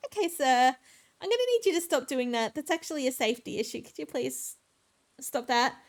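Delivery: sweet and professional for the customer, only lightly put on; customer service voice. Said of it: "in my best customer service voice".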